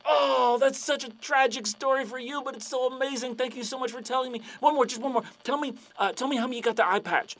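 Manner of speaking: high-pitched, breathless gushing; hammed-up fanboy excitement. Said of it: "And the guy's like".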